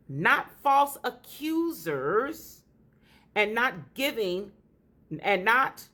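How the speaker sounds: slow, solemn Bible reading; scripture reading. Acted. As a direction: read each phrase slowly, like from the pulpit. Reads scripture aloud slowly.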